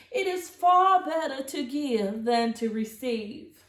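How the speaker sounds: lofty aunt's final rule; grand aunt voice. Acted. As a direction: pronounce the rule like a theatrical old aunt. Auntie Claus's words of wisdom.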